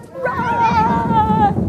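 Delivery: high shouted cry; run!. Shown as a demonstration. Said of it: "the pigs have to do what?".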